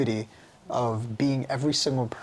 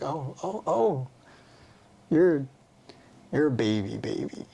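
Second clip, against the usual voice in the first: put-on baby talk. Talking to her own baby self, cooing. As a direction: coo like talking to an infant.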